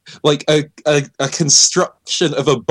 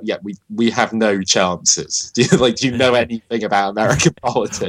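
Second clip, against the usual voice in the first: laughing mock candidate; 2 semitones lower than usual. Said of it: "And they were like".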